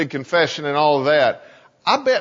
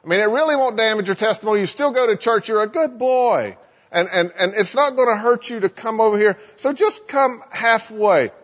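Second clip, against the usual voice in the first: higher, sing-song coaxing; little tempting voice; 4 semitones higher than usual. Acted. Satan tempting Russ to come closer, coaxing little voice. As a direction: coax him gently along in a higher little voice. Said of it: "this little voice that says".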